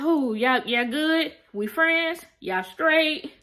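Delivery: perky and a little pushy, checking if they made up; eager check-in. Retold or imitated. Eleanor checks on her friends.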